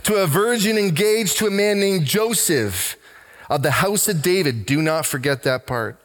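lifted, measured Bible reading voice; preacher reading Luke aloud; scripture reading. Acted. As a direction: read the passage aloud to the church.

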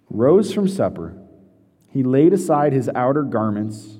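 measured, solemn reading of scripture; unhurried Bible reading to the congregation. Acted. Reads scripture aloud.

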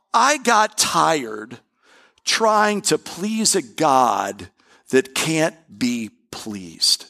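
very slow, weary and pointed; pushing back. Retold or imitated. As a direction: say it slowly to push back a little. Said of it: "he said that in a way ... to push at me".

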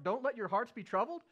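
Don't let your hearts be troubled, called out loud and high; urgent plea. Acted. Preacher urges the congregation, loud and urgent. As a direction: insist on it, almost shouting.

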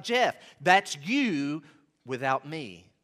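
slow, measured answer, voicing God lightly; God's reply. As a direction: let "that's you" land slowly. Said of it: "And God's like".

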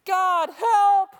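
sudden loud high plea; desperate cry for help. Retold or imitated. Pastor showing his panicked prayer, a loud desperate cry. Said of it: "Here's what it sounded like at that time".

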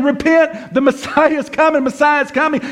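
high-pitched, repetitive herald's cry; street preacher proclaiming. Acted. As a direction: imitate an eager evangelist calling out. Imitating followers still out proclaiming.

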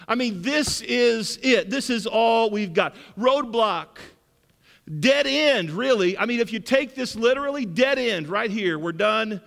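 exasperated widow, half-shouting in disbelief; incredulous widow. Retold or imitated. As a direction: play the widow who can't believe the request. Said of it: "Isn't that what she says?".

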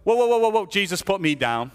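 high, loud, panicked "whoa, whoa"; mock alarmed cry. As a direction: play a believer caught off guard, yelling in mid-air. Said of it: "Are you gonna go".

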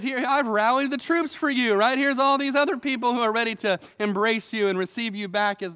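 coax, then shrug it off; persuading spiel. Retold or imitated. Shimei bolsters his case to David, coaxing. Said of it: "the idea is".

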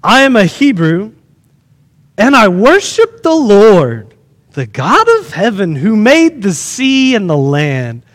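measured declaration with drawn-out words; solemn scripture reading. A narrator's reading. Preacher reads Jonah's answer to the sailors, solemn. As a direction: read it out deliberately, phrase by phrase. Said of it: "here's Jonah's answer".

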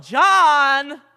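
loud, high imitated holler for a child; mother's yell. Preacher imitating his mother calling him, a big yell. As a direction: yell the name out, drawn out, like a calling mum. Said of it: "she would yell out".

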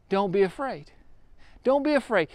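soft, private self-reassurance; softly to yourself. Shown as a demonstration. Someone in trouble quietly repeating comfort to themselves, soft. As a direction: murmur it as if to yourself. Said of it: "You keep on saying that over to yourself".

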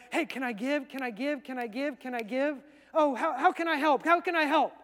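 eager rapid-fire repeated pleas; begging to give. Acted. Poor church members begging to give, eager. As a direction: play it keen, each question tumbling into the next. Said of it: "they were begging to give".

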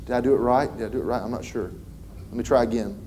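soft, unsure muttering to himself; doubtful self-talk. Retold or imitated. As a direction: voice a tired missionary's doubt. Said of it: "probably going back home and going".

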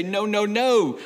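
imitating a parent's rapid-fire no; quick emphatic no. Frustrated parents telling kids to stop, quick emphatic no. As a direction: fire the repeated no off in one quick run. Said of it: "We say it very quickly".

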